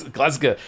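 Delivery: Glasgow said with a reduced last vowel, "GLAZ-guh"; local pronunciation of Glasgow. Shown as a demonstration. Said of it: "that's how, how thick".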